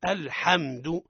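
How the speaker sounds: sukun held firm in الحمد; careful articulation. Shown as a demonstration. Teacher showing students the still consonant, careful articulation. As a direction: say الحمد slowly, each consonant fully realised. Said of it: "نحقق السكون".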